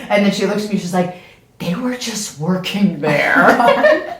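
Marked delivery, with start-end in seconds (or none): 1.6-4.1 laughing. Retold or imitated. Friend laughing while explaining.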